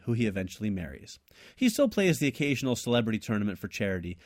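measured read-aloud of a written tale; story narration. A narrator's reading. Co-host reads his invented sequel, steady story narration. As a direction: narrate the plot in steady phrases.

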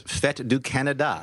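slow, drawn-out French pronunciation; stretched-out French accent. Acted. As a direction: say it with a French flourish. Reading French name grandly.

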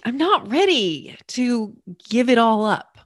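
mock clingy protest, swooping pitch. Someone resisting surrender to the divine, clingy and unready. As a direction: hold on in a whiny, reluctant plea.

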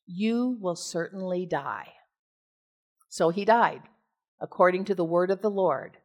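measured, formal Bible reading voice; steady public reading of scripture. Acted. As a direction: read the passage like a lector. Reads scripture aloud.

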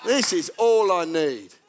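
low, slow, drawn-out dread; weary dismay. Acted. Commuter meeting someone with an attitude, weary dismay. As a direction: groan it inwardly, sinking. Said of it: "And you think".

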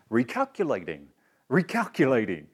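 lightly imitated robotic GPS assistant; mechanical voice. Siri on the phone keeps talking to the driver, mildly mechanical. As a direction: mimic a mechanical navigation voice. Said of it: "in a very mechanical voice".

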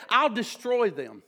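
forceful, declaring sermon delivery; emphatic preaching. Real, not acted. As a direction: proclaim scripture to the congregation. Preaching scripture at full force.

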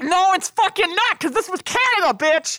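high, loud indignant retort; heated correction. Real, not acted. Host correcting her cohost about Canada, loud and indignant. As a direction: snap back in indignation.

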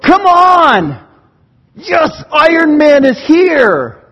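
loud, high whooping cheer with long drawn-out words; cheering fan. Acted. Preacher acting out superhero fans, excited cheering. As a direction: holler it like a crowd greeting its hero. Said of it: "so we go".

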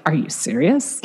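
mild sassy comeback, rising at the end; retold sassy incredulous question. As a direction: imitate your own indignant disbelief. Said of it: "had this sassy voice".

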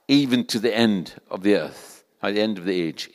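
measured, emphatic Bible reading with key words punched; scripture reading. Real, not acted. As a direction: proclaim the verse phrase by phrase, with pauses. Reads Bible passage aloud to congregation.

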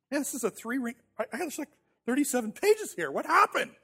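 mock panic. Panicked self-talk after failing.

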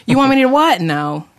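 hammed-up disbelief dropping into dismissal; mock refusal. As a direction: act out refusing an outrageous request. Acting out her flat refusal.

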